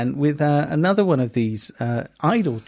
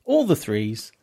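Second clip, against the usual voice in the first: bingo caller; 4 semitones lower than usual. Acted. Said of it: "you did read it out like a bingo card".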